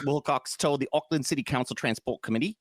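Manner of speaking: lightly put-on Kiwi accent; New Zealand accent. Host quoting the article, New Zealand accent. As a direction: read it out in mock New Zealand. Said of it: "my New Zealand is just my Australian".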